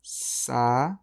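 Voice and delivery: "saúde" pulled apart, sa held long, then ú-de; separated syllables. Shown as a demonstration. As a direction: split "saúde" slowly at the hiatus. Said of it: "Só que se eu separar aqui".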